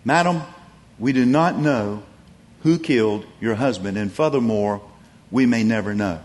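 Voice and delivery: a gentle, patient answer to a grieving widow; loving and patient. Retold or imitated. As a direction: ease her down patiently, lovingly. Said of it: "very lovingly and patiently said".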